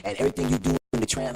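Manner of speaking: loud, oblivious admirer impression; imitating loud woman. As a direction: mimic a fan being loud about it. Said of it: "loud with it".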